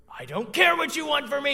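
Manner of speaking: put-on high, loud screaming-toddler voice; imitating toddler tantrum. Dad imitating his daughter screaming at the snack cabinet, high and loud. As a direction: belt it like a furious one-year-old at the cupboard. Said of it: "And she starts screaming at the cabinet".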